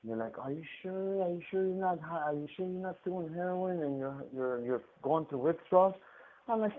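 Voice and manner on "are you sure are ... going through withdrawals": high, soft mock questioning; skeptical staff. Staff doubting an inmate in pain, mock skeptical.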